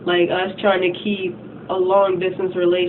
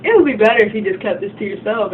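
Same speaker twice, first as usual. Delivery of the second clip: smug; 3 semitones higher, 3 dB louder than usual. Retold or imitated. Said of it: "she's just like".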